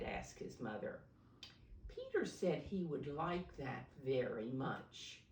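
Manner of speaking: gentle, clear storybook reading for little ones; reading to children. A narrator's reading. Teacher reading a picture book to preschoolers, storybook voice.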